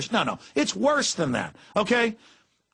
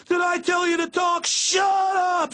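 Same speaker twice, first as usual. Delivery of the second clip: much higher, full drill sergeant scream; screaming cop; 13 semitones higher, slower than usual. Retold or imitated. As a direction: yell it at the top of your lungs like an angry cop. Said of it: "So loud".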